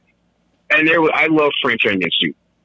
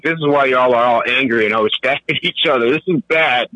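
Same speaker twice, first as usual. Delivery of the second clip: mock outrage at coffee; 5 semitones higher than usual. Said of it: "and I was like".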